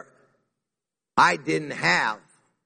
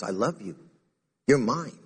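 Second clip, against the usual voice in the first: loving; 4 semitones lower than usual. Shown as a demonstration. Jesus reassuring the church he loves, tenderly. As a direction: say it like a father to his own kids. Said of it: "He's saying it lovingly to this church".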